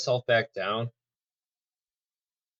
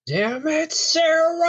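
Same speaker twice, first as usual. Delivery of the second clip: strained hushed yell at a friend; whisper shout; 4 dB louder, much slower than usual. Acted. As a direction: yell under your breath, high and tight. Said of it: "whisper shout".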